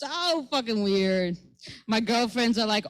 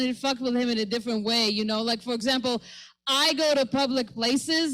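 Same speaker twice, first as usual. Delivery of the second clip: usual speaking voice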